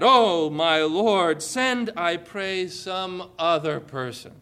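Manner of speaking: slow, drawn-out begging plea; pleading. Retold or imitated. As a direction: beg the Lord slowly to pick someone else. Moses begs God to send another.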